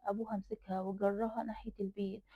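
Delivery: ordinary delivery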